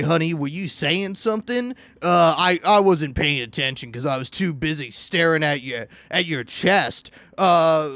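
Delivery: low, dopey lecherous drool; thirsty commenter. Retold or imitated. Mocking thirsty commenters ogling a shirtless man, low leering drool. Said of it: "everybody in the comments is just like".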